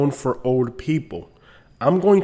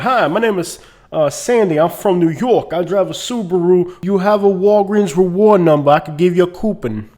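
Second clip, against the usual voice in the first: higher, louder mock New York cashier; register lady; 5 semitones higher, 5 dB louder than usual. New York lady at the Walgreens register greeting a customer, imitated cashier voice. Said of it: "the lady at the register be like".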